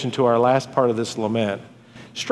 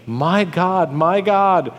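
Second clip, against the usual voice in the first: raised, mildly acted cry to God; 5 semitones higher, slower than usual. Preacher voicing Christ's words on the cross, a restrained crying out. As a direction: cry out to God, pitched up but held in check. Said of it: "He cries out in a loud voice".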